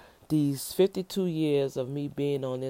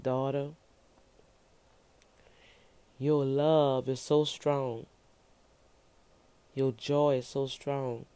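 voice of the Lord. Retold or imitated. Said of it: "The Lord pinpointed some stuff and said".

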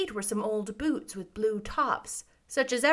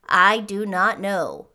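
slow, louder, solemn answer; grave; 6 dB louder, slower than usual. A narrator's reading. Munchkin answering the girl about the Emerald City, grave. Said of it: "answered Boq gravely".

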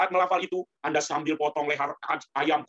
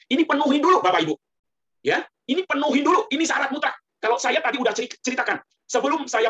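higher and louder, insisting; emphatic preaching; 7 semitones higher, 5 dB louder than usual. Real, not acted. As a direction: hammer the point home to the congregation. (penceramah menegaskan syarat kepada jemaah, dengan suara lebih tinggi dan keras)

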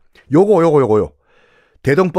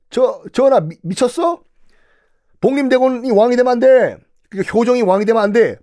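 high, urgent pleading official; flustered protest to the king; 8 semitones higher than usual. Retold or imitated. Lecturer voicing Kim Yuk flustered, pleading with the king. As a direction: stammer out an objection to the king.

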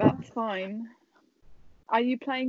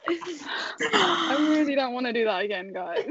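laughing; 3 semitones higher than usual. Real, not acted. Laughing after embarrassing performance.

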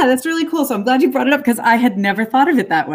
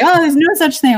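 dismissive; 9 semitones higher, 5 dB louder than usual. Retold or imitated. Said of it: "it would be like".

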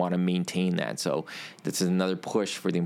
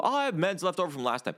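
imitating an owner; 10 semitones higher, faster than usual. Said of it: "when people".

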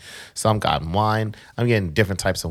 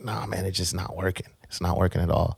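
quiet; 6 dB quieter than usual. Retold or imitated. Retelling feeling sick.

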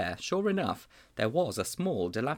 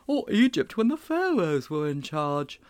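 much higher and louder, bursting with excitement; thrilled boy; 6 semitones higher, 4 dB louder than usual. A narrator's reading. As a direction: gush like a delighted child. Sponge dreams of pharaohs.

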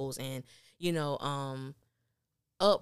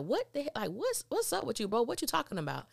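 higher, baffled imitation of Calvin; confused friend voice; 7 semitones higher than usual. Calvin asking his friend what he means, higher and baffled. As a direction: play Calvin thrown off by a weird remark.

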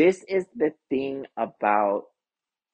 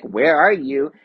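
louder, mildly urgent imitation of a mother; imitated urgent mom; 3 semitones higher, 6 dB louder than usual. Mom phoning the daughter who missed a flight, mock urgent. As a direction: act out mom demanding an answer.

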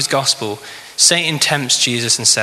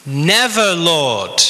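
mildly emphatic rebuke, pitched high then falling; lightly acted protest; rebuking; 3 semitones higher, much slower than usual. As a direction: object firmly, swooping down from a high start. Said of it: "began to rebuke him".

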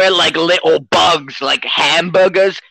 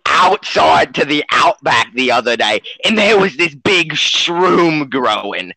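mock Australian accent. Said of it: "he's Australian, if you can't tell".

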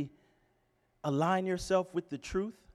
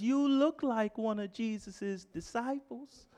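put-on a little girl's question in a Southern drawl; Southern accent; 4 semitones higher than usual. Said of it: "That's my best Southern accent".

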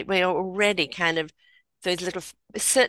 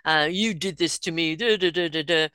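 mocking blame. Mocking finger pointing.

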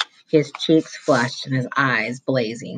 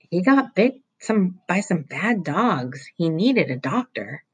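put-on a touch higher, earnest boy; hesitant kid explaining himself; lightly voiced boy; 5 semitones higher than usual. Roy explaining the dog bites to the vice principal, earnestly. Roy defends his friend.

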